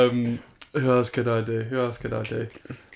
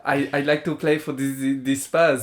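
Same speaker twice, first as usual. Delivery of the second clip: lisping German footballer impression; Werner; 2 semitones higher, 3 dB louder than usual. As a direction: speak as a bewildered, lisping German. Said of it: "He's got a lisp and he's German".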